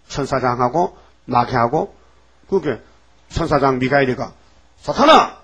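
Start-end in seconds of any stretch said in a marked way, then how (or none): 4.8-5.4 high, loud cry; rebuking shout. Acted. Archangel Michael shouting at Satan, loud. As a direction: hurl his name out.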